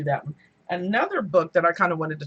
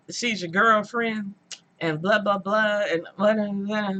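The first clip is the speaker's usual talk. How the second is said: slowed-down lightly mocking narrator. Vlogger mocking the slow audiobook reader. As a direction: drag it out like a dull reader. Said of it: "she's reading the narration very slow".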